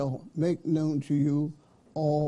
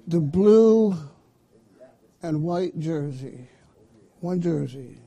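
BLUE punched loud, "and white jersey" run on without THE; "blue and white" as a single description, BLUE stretched loud; one-item phrasing; 4 dB louder than usual. Shown as a demonstration. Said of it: "notice I'm emphasizing the word".

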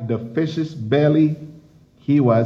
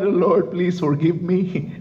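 Jonah crying out. Retold or imitated. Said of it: "That's the time he cried".

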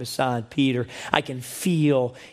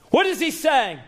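preaching emphasis; 4 dB louder than usual. Real, not acted. Repeated question, more intense.

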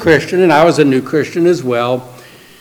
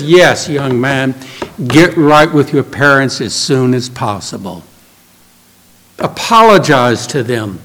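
put-on mature older Christian; 3 semitones lower than usual. Older Christian advising the newly saved young man, mature and grave. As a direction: give weighty, unhurried advice as an elder. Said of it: "Christian that was about thirty years old".

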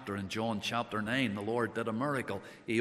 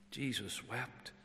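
hushed repeat; 9 dB quieter than usual. Acted. Preacher echoing the verse softly to the mourners. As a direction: let "Jesus wept" fall to a near hush.

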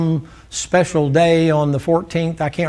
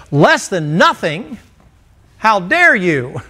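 slow, rising disbelief on less than nothing; mock outrage; 3 semitones higher, slower than usual. Preacher voicing an offended hearer, mock indignant. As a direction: play the offended listener, hammed-up.

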